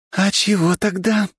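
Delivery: slow, menacing question; angry. A narrator's reading. Lera interrogating Valentin, slow menacing question. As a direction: press him coldly. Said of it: "очень злобно спросила Лера".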